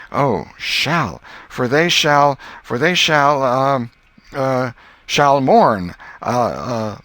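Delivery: high, loud, slow groping for the word; schoolboy stuck reciting. Acted. Tom groping through the verse for Mary, high and slow. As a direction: drag each word as memory fails.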